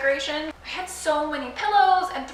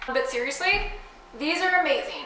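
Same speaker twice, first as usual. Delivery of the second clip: earnest tone, voice breaking mid-sentence; 3 dB quieter than usual. Reviewing a pack of rug grippers, the speaker praises them: voice cracking. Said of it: "My voice cracked".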